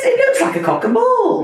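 high giggling through the words; laughing. Real, not acted. Giggling at rude joke.

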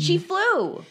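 squealing high with delight; excited. Real, not acted. Repeated, higher, far.

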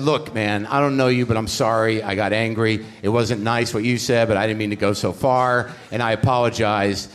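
sincere apology. Retold or imitated. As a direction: apologise to him earnestly and gently. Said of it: "I meant this genuinely from my heart".

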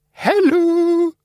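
very high, happy little hello; Tom the bulb. Acted. Light bulb Tom happily greeting Cap. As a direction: chirp it like a glowing bulb. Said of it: "said Tom happily".

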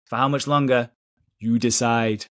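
lightly put-on Geordie accent; a hint of a Geordie announcer. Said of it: "That's me doing a Geordie accent".

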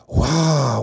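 relieved, breathless wow; laughing with relief. Acted. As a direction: laugh off the close call. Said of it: "dit Ludo en rigolant".

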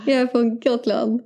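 amateur Gotland dialect; Gotland accent. Acted. Taking a turn in the dialect challenge, Gotland accent. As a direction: imitate someone from Gotland. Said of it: "det är gotländska".

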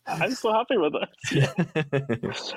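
slow, laughing through the words; laughing mock quote. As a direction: laugh your way slowly through it. Mocking Amanda's interview.

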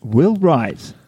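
slow, flat monotone rep; Neil monotone voice. Retold or imitated. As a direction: drone it out like a pedantic sales rep. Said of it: "In a monotone voice".

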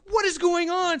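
high, loud disbelief; exasperated, comic cry at the nonsense; incredulous outburst. Retold or imitated. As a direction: exclaim it in utter bafflement. Teller's incredulous reaction to the plot.

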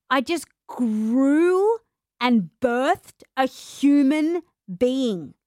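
slow, drawn-out, near-tearful disbelief; mock exasperated. New mum answering a stranger who asks what she does, slow near-tearful exasperation. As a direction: stretch each word out, half crying. Retelling reply to churchgoer.

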